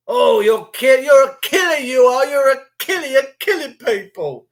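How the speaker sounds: high, pointed jeering voice; hammed-up outrage at the maskless; mock accusing mask wearer.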